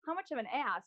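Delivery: ass without k, as heard; misheard as ass. Shown as a demonstration. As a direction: say ass instead of ask. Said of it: "I'm thinking".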